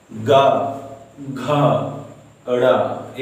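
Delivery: ग घ ड़ said one at a time from the throat; demonstrated sounds. Shown as a demonstration. Teacher listing throat sounds for students, clearly. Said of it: "ये सब बोलने से कंठ में".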